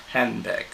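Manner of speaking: "handbag" with "hand" stressed, then falling. Shown as a demonstration. Teacher showing students the fall in handbag. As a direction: hit "hand", let "bag" drop. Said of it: "falls on the first syllable".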